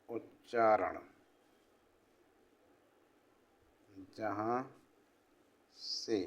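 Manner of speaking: quiet, word-by-word dictation with long pauses. Acted.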